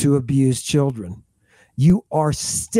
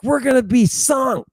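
a lightly voiced scared cry, higher; mock panic; 7 semitones higher than usual. Frightened kids in the storm boat, mock high panic. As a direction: kids squealing they'll sink. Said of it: "they're like".

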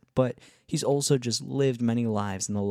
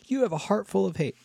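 much higher-pitched mock accusation; mock accuser; 10 semitones higher than usual. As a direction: play an outraged critic canceling someone, pitched way up. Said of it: "feel myself getting canceled".

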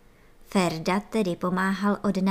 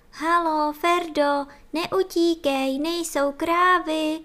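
higher, slow, louder shouts; slow, higher calls after Ferda; calling after; 8 semitones higher, 3 dB louder than usual. A narrator's reading. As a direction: call after someone running away. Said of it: "volali za ním".

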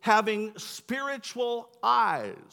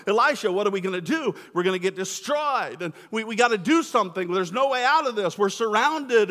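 panicked servant, fast and loud-ish; mock freaking out; 3 dB louder than usual. Servant panics to the prophet Elisha, in a rush. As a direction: play the servant losing it, rushing. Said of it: "He just starts to freak out".

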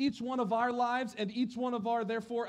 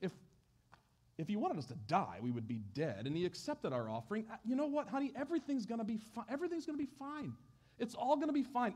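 softer, quick soothing to her husband; calm him down, it's all fine; wife reassuring husband, softly; 2 semitones higher, 4 dB quieter, faster than usual. Acted. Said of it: "wifey's like".

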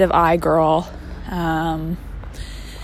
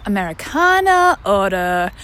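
mock café owner; 5 semitones higher than usual. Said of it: "she was like".

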